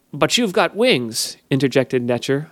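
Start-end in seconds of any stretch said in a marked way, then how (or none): 0.1-1.4 unsympathetic. A narrator's reading.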